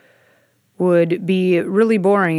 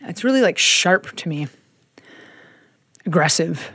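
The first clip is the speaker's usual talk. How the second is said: pinching nose. Real, not acted. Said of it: "I'm saying this with my nose plugged".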